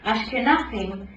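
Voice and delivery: "Ashkenazim" slow, every syllable a hammer stroke. A narrator's reading. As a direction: hit each syllable of "Ashkenazim" slowly. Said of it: "Iris pronounced it slowly, every syllable a hammer stroke".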